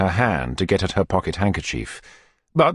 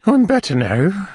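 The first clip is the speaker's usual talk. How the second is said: high, breathy matron voice; high put-on voice of the recovering matron; Missus Corney; 13 semitones higher, 4 dB louder than usual. Matron to beadle, high and weak.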